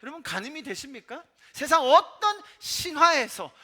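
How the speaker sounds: loud, high-pitched preaching with slow, stretched phrases; emphatic preaching. Real, not acted. Preacher proclaims God's sacrifice to the congregation, emphatic preaching. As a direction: preach it forcefully, drawing out the key words.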